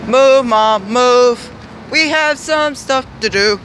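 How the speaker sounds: calling out to mom to get going; urging mom on. Real, not acted. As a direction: hurry mom along with punchy repeats. Hurrying mom along the street.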